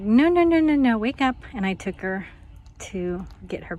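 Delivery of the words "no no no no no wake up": higher, pleading no no no; urging wake-up. Retold or imitated. Waking the tired dog from her nap, urging. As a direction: rouse a sleepy pet, lightly. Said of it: "I'm like".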